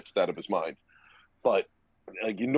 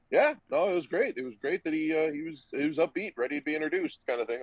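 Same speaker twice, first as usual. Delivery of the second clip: nervous cover-up; 5 semitones higher, faster than usual. Retold or imitated. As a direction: fake it brightly so the coach buys it. Covering for teammate to the coach.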